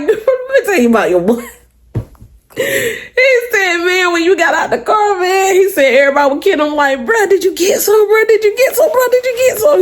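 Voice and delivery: high, laughing, nosy questions; excited gossip. Retold or imitated. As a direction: pester her like an excited friend. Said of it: "He was like".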